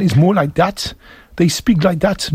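Geordie accent demo, slightly lifted pitch; aksen Geordie. Shown as a demonstration. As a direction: imitate a Newcastle Geordie accent. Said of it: "a Geordie accent".

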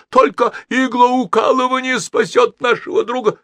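loud, very high frantic proclamation; fervent high-pitched outcry; yelling. A narrator's reading. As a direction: proclaim the cure at the top of your voice. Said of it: "завопил консул".

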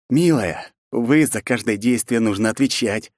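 plain reading voice

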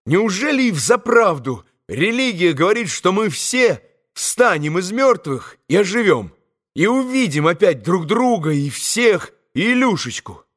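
high-pitched, earnest asking; wondering boy's voice, pitched high throughout; eager boyish question. A narrator's reading. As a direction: ask it as a hopeful, excited boy. Kolya eagerly questions Alyosha.

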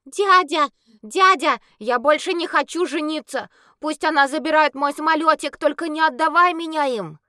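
put-on high, loud frightened child's plea; child's cry. Little boy screaming to his uncle for help. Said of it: "с криком".

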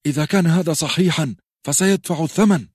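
put-on a boy's angry vow of revenge; angry Robb. Robb, red with anger, vows the guilty will pay, angry high threat. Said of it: "وقد اربد وجهه غضبا".

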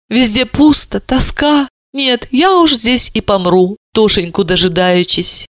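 bitter. Acted. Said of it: "она горько призналась".

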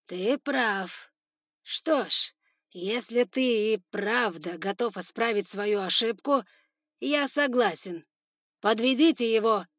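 loud, slow, ending in an order; lordly consent. Acted. Spider lord agreeing and ordering guards, loud and slow. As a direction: grant it grandly.

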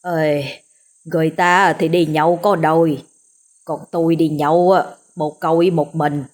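put-on self-pitying drunken slur; drunk slurred voice. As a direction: mumble it tipsy and sorry for yourself. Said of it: "Giọng ông cũng lè nhè".

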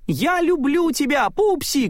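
очень высоко и громче, вдогонку; прокричи признание на бегу; крик Майка. A narrator's reading. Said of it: "крикнул ей Майк". (Майк кричит Селии признание, высоко и громко)

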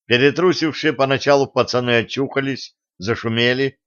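plain reading voice

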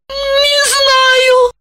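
high tearful wail; high crying voice. A narrator's reading. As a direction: sob it out. Lipochka in shock, crying.

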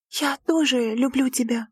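shy, nervous love confession; trembling voice. A narrator's reading. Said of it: "произнесла дрожащим голосом". (дрожащим голосом, робко)

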